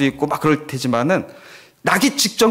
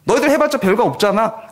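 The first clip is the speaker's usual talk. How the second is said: mocking; 5 semitones higher than usual. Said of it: "라고 조롱하는 거랑".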